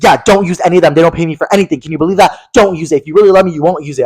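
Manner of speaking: mildly hammed-up scolding; mock exasperated complaint. Retells celebrity's complaint about unpaid sounds.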